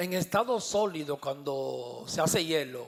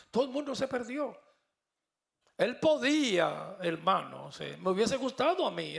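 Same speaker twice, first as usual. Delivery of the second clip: anointed preaching voice; 2 semitones higher than usual. Real, not acted. Preacher tells the congregation the Spirit gives him this voice, fervent preaching. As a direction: proclaim it with fire from the pulpit. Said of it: "Hasta el tono de la voz".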